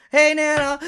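loud, high mock phone hello. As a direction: call it out over the racket.

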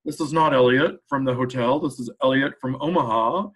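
mock denial from a caller faking his identity; Elliot's disguised voice. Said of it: "he would always change his voice".

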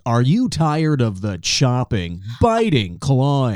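a hint of an old infomercial pitch. Mocking his own voice, mild infomercial pitch. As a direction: lightly sell it like an infomercial. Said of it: "sound like the beginning of an infomercial".

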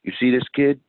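put-on whispered "You see this kid?"; grim retold whisper to the boy; hushed question. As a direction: lean in and whisper it to scare him. Showing prison photo to kid.

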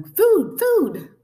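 loud, high hungry peep; piercingly high little chick cry; tiny gosling voice. A narrator's reading. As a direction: demand it like a hungry baby bird. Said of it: "That tiny voice".

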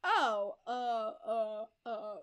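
mock stalling, loud oh then fading; flustered hesitation. Retold wife caught out by her husband, flustered. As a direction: stammer as if caught out. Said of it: "And she's just like".

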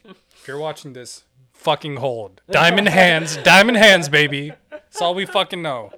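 loud, cocky crypto bro hype; loud cocky finance bro. Pretend. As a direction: shout it like a hyped stock bro. Hyping crypto holders, shouting.

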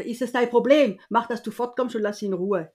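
scolding retort. Retold or imitated. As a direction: re-enact a protective aunt's rebuke. Aunt telling off an intrusive man.

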